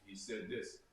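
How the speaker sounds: a hesitant, watered-down retelling; half-hearted quote. Retold or imitated. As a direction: mumble it like you're not quite sure. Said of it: "I can't half-hearted".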